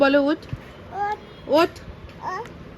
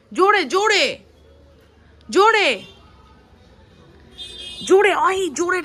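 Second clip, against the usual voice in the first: urging loudly; 5 semitones higher than usual. Real, not acted. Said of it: "জোরে জোরে ডাক".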